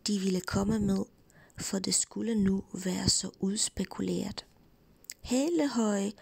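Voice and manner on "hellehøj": a called-out hello, pitched up; mild storybook holler; shouting. Acted. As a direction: call it out down the road. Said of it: "råbte Klods Hans".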